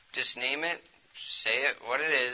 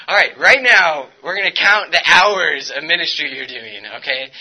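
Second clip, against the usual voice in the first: mentor's firm orders; 3 semitones higher, 12 dB louder than usual. Retold or imitated. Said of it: "my discipler sat me down and was like".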